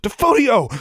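high, loud incantation; forceful battle cry of a spell; yelled spell. A narrator's reading. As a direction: yell the spell with full urgency. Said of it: "She yelled".

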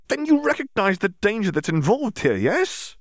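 put-on lightly accented, exasperated Bulgarian Viktor; Bulgarian-accented Victor. Victor scolding Dimitri, a hint of Bulgarian accent. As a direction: scold him with a mild Bulgarian lilt.

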